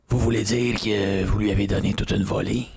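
lightly put-on smooth host voice; a hint of Faneuf's suave delivery. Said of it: "faut que tu fasses la voix de Faneuf". (légère imitation de la voix doucereuse de Faneuf)

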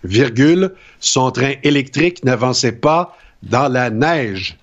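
slow dictation with punctuation spoken; dictation reading. Acted. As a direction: read it like a teacher's dictée. Reads a dictation aloud.

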